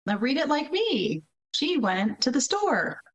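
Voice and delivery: a hint of a patient teacher; mock teacher voice. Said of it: "And you're like".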